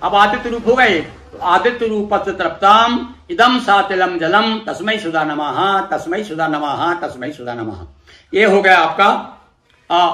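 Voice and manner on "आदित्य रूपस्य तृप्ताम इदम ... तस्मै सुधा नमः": mantra recitation. Shown as a demonstration. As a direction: intone it like a priest leading the offering. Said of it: "अपन प्रपितामह बोल".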